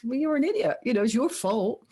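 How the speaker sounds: mocking sneer. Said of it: "almost laughs at them and says".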